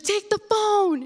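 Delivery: high, drawn-out mock yell; mom's urgent order. Mom shoving phone at child, high mock yell.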